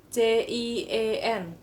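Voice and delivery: "C I E N" spelled letter by letter; corrected phonetic spelling. Shown as a demonstration. Teacher correcting the reading of jian, "C I E N" spelled out deliberately. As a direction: spell "C I E N" distinctly, A becoming E. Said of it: "itu kalau dibaca kayak gitu".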